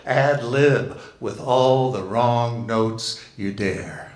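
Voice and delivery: measured, deliberate poetry reading; poem reading. Acted. Reading a poem to the gathering, measured and unhurried. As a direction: read it slow and savour each line.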